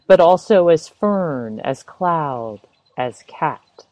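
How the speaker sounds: measured poem reading, phrase by phrase; poem recitation. Acted. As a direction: read out the poem with clear, deliberate pauses. Reads a poem aloud.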